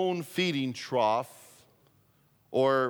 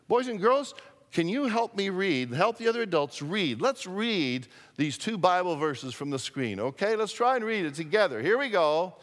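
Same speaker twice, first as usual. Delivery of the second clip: put-on kids show host; 4 semitones higher than usual. Pastor invites children to read.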